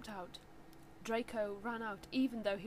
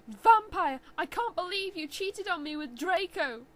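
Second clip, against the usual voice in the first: loud, higher accusing yell; angry shout; 9 semitones higher, 9 dB louder than usual. Acted. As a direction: throw the accusation. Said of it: "I shouted at him".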